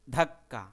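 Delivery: ধাক্কা said with a hard push; ধাক্কা, loud and forceful; stressed. Shown as a demonstration. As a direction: punch out ধাক্কা. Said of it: "মানে ধাক্কা দিলে যেরকম".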